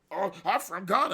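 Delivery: quoted objector, high and loud; mock objector. Mocking an imagined objector.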